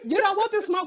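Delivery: high, laughing trash talk; laughing taunt. Pretend. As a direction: tease through laughter.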